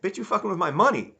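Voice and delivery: high, loud mock outburst; hammed-up furious yell; mock angry snap. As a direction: yell it at the boss like he's robbing you. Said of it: "he's like".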